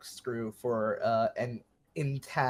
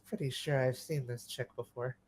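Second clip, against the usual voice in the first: hushed, much softer murmur; whispering aside; 8 dB quieter than usual. Acted. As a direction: lean over and confide it under your breath. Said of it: "just whispers".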